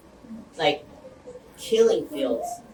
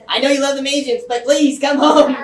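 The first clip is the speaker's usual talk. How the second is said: retold scared plea; 7 semitones higher, 9 dB louder than usual. Retelling his worried call to the ambassador, mock scared plea. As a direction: plead half-laughing, building to a loud call. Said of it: "I was scared and I called them".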